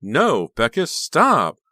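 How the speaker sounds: high, loud cry of protest; frightened cry. A narrator's reading. Honey pleading with Becca, frightened cry. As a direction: scream for her to stop. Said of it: "a frightened cry of protest".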